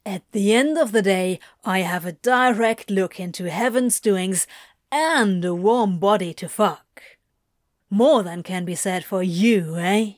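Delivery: lightly voiced sneering demon; brisk opening, scornful dismissal; contemptuous sneer. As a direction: toss it off with disdain. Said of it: "Crowley sneers contemptuously at him".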